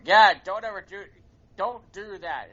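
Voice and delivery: retold fatherly telling-off, loud at the start; mock parental scolding. Father scolding his kid in front of mom, mock stern. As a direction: act out a dad's show of disapproval. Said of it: "my father going".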